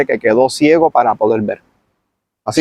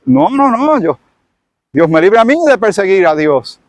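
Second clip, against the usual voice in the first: mock protest; 6 semitones higher than usual. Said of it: "pensaría él".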